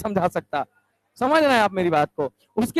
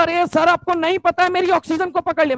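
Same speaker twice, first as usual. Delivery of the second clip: upset outburst; 6 semitones higher than usual. Retold or imitated. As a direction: complain hotly to sir. Upset student complains to teacher.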